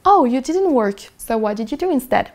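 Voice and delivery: respond in English as an unbothered conversation partner; English speaker replying. Acted. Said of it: "Il va surtout simplement vous répondre".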